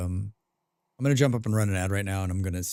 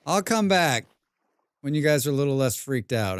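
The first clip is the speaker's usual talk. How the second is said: high soothing voice; 4 semitones higher than usual. Acted. Soothing scared animals.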